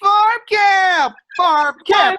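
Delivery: loud, thrilled chant; excited cheer. Real, not acted. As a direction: shout it with pure glee. Girls cheer at farm camp.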